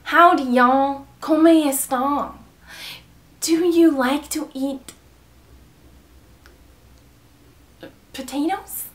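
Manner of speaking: slow, drawn-out mock Southern accent. Shown as a demonstration. Greeting y'all in the accent challenge, slow Southern accent. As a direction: stretch it into a Southern drawl. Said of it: "Southern accent".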